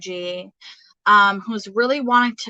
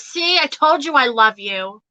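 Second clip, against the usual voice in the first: mother's teasing message; 3 semitones higher, 5 dB louder than usual. Retold or imitated. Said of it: "She goes".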